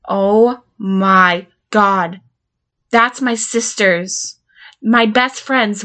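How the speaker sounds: very slow, stunned; dawning dread. Acted. Learning the files reach her sister and friend, slow dread. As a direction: let each name sink in slowly. Realizes whom he sent to.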